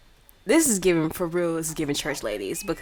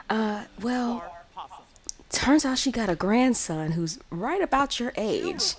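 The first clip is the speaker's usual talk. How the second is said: drawn-out, higher grandma voice; acted coy grandma; 5 semitones higher, slower than usual. Grandma hinting at a grandson for Lauren, coy and lightly acted. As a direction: ease slowly into the hint.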